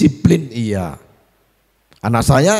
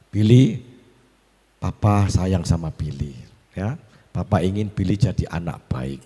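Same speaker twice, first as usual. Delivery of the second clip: put-on softer, tender reassurance to his boy; tender father to son; 4 semitones lower, 3 dB quieter than usual. Father softly comforting Billy after pinching him, tender. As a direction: gently reassure the crying child.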